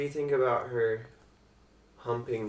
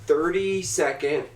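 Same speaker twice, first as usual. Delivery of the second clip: announcer intro; 2 semitones higher, slower than usual. Acted. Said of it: "non-spoiler review".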